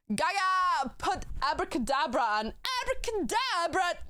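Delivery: high, hyped-up demand for a song; giddy fan outburst; excited calling out. Real, not acted.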